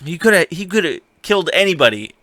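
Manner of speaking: Gendry's hammed-up indignant complaint; mock scolding. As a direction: lay into her for wasting the chance. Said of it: "giving her shit".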